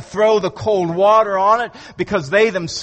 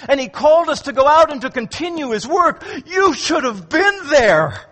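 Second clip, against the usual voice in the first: higher, lit-up retelling of the disciples; enthusiastic disciples; 5 semitones higher than usual. Acted. Disciples telling Thomas, eager and excited. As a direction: gush it like eager eyewitnesses. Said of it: "the enthusiastic, glad report".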